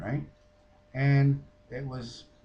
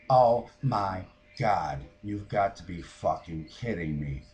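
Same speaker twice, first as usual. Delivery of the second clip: retold exasperation; 3 semitones lower, 4 dB louder than usual. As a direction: spell out your disbelief, word by word. Exasperated as dogs run off.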